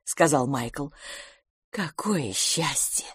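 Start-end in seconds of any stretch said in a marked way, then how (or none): 1.7-3.1 faint, slow relieved sigh of words; barely voiced relief; weakly. A narrator's reading. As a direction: say it softer and slow, drained. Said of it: "слабо сказала".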